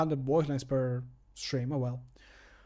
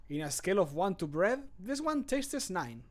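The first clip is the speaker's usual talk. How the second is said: character voice line; 4 semitones higher, 5 dB quieter than usual. Acted. Streamer's final take of the tasting line, high soft verdict. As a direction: lift the verdict high and ease off. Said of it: "recording voice line takes".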